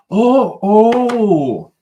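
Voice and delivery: loud, high "oh, oh!" of discovery; sudden loud gotcha exclamation; excited realization. Real, not acted. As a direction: burst out as it clicks. Catches a flaw in the timeline.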